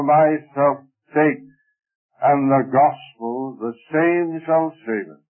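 measured, formal Bible reading; solemn scripture reading. Acted. Preacher reading the Gospel to his congregation, solemn and measured. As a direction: read the passage out in steady, deliberate phrases.

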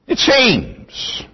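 "seems" drawn out and set apart by a pause; stress on seems. Real, not acted. Preacher qualifying a guess about Saul's sons, stress on "seems". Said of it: "I underline that word".

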